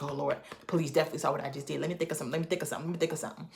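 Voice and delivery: quick, hushed panicked self-talk; racing thoughts muttered under the breath; panicked inner thought. Retold or imitated. Driver pulled over by police, hushed and panicky. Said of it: "my heart beat fast 'cause I'm like".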